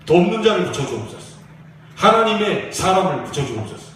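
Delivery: put-on young soldier's prayer rising to a loud plea. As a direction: swell into a pleading cry of "붙여주옵소서". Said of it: "군대 가기 전에 기도했던 내용".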